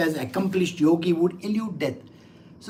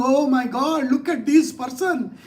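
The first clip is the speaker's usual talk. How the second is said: higher-pitched mock alarm; feigned alarm; 3 semitones higher than usual. Lord sizing up a dreadful creature, feigned fear. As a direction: pretend to be shocked by the creature. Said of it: "It's a feigned way".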